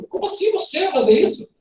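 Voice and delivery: high-pitched shocked questioning; startled question. Acted. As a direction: ask it as if taken aback. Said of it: "um susto".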